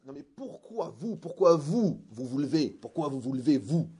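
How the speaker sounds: demande martelée plus fort; insistance appuyée. Retold or imitated. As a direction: insister en haussant la voix. Insiste auprès de la femme. (répète sa question plus fort, avec insistance)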